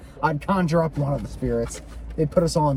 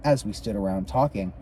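measured, lilting read-aloud; story narration. A narrator's reading. Reader tells of the Hale house tour, story narration. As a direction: narrate the ghost tour from the book.

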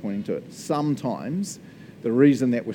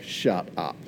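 amazed shut up; 7 semitones lower, 3 dB quieter than usual. Retold or imitated. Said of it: "I'm like".

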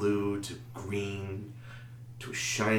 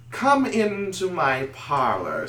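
creepy whispery spider; 8 semitones higher, 4 dB louder than usual. Acted. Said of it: "said the spider to the fly".

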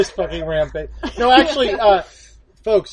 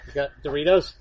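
low, soft stoned sheep voice; a low-voiced sheep mumbling for snacks; rampaging sheep at the door asks the farmer for snacks, low and soft; 5 semitones lower, 5 dB quieter, faster than usual. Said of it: "I'm gonna be a Welsh sheep on a rampage".

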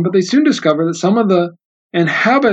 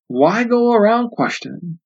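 triumphant; 5 semitones higher than usual. Acted. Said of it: "she said triumphantly".

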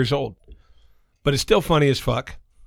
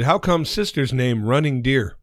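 slow, stilted mock Native American accent; slower than usual. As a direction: joke child asking in a put-on Native American accent. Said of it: "Sorry about the accent".

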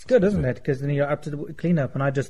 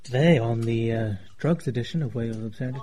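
deep gas voice; 5 semitones lower than usual. Real, not acted. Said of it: "Your voice changes dramatically".

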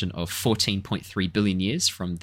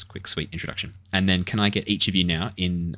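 usual speaking voice

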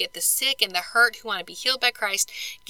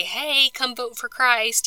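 slow, drawn-out "hey", lightly called; mock rallying call; 3 semitones higher, much slower than usual. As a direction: imitate someone rounding up voters. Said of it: "rile people up and say".

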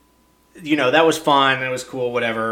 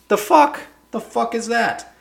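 much higher disbelieving yelp; outraged and baffled; high, mocking what-the-hell; incredulous squeal; 9 semitones higher than usual. Real, not acted. Exasperated rant.

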